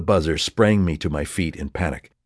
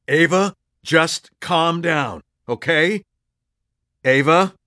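desperate calming; 10 semitones higher, 3 dB louder, slower than usual. Acted. Calming raging Ava.

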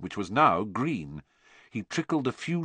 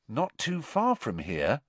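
meaningful repeat; 5 semitones higher, 4 dB quieter than usual. Acted. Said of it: "looking significantly at Harry".

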